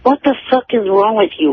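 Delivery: ordinary talk, nothing marked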